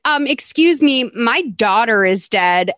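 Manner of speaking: mockingly put-upon, dragging out the end; mock indignation. Host ridicules Jackie's nerve after the murders, mock indignant.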